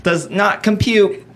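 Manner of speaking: slow, mock robotic monotone; slow mock computer refusal. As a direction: drag each word like a confused machine. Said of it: "he talks like this".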